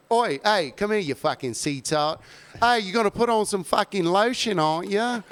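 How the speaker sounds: hammed-up British geezer heckling in a British accent. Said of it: "you have a very good British accent".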